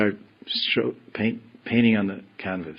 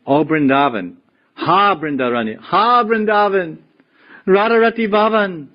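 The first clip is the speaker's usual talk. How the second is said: longing cry; 9 semitones higher, 4 dB louder than usual. Retold or imitated. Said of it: "So he's saying".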